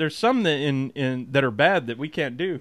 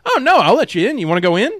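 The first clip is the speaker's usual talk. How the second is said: retold eager offer; 6 semitones higher, 4 dB louder, faster than usual. Quoting the guard's eager invitation.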